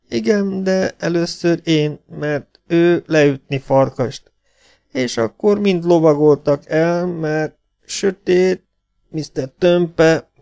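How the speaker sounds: high, very slow, laboured voice; panting. A narrator's reading. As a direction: pant it out haltingly as a wounded man. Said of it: "lihegte villogó szemmel".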